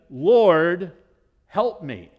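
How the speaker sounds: loud pleading cry to the Lord; desperate plea. Acted. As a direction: cry out for help, begging. Woman's plea voiced loudly.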